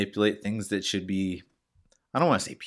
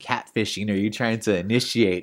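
exasperated questioning; 4 semitones higher, 6 dB louder than usual. Acted. Acts out baffled challenge to spammer.

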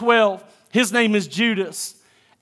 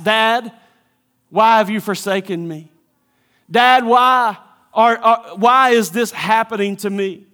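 anguished plea. Acted. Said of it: "you will ask".

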